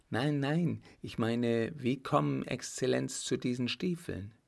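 lightly voiced bewildered young woman; puzzled young fiancée. Fiancée questioning the marshal about the boots, puzzled.

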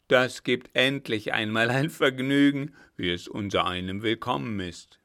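loud, coarse gloat; gloating robber. Acted. Robber gloats to his comrades, loud coarse relish. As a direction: relish the prospect, loud and greedy.

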